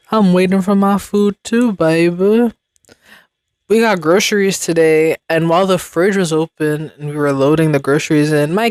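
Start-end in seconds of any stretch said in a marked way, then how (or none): 0.1-2.5 lightly voiced sassy cat, pitched up; higher, mock-indignant cat complaint; angry cat. Voicing the cat waiting for food, mock indignant. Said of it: "looking mad angry".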